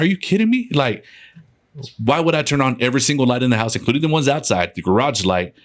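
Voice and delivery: retold exasperated protest, pitch jumping high at first; a touch of indignant disbelief; irritated. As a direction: argue it quickly, mildly irritated. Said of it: "I kinda got irritated".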